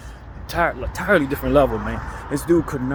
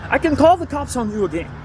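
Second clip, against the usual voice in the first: put-on threatening old lady; 13 semitones higher, 5 dB louder than usual. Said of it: "She was like".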